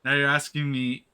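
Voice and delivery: exasperated scolding. Real, not acted. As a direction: tell the character off loudly. Scolds the game character, still worked up.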